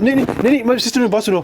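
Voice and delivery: high, urgent repeated no's to interrupt; insistent cut-in. Real, not acted. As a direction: jump in high to stop her talking. Heated argument, cutting her off. (اونچی آواز میں جلدی سے ٹوکنا)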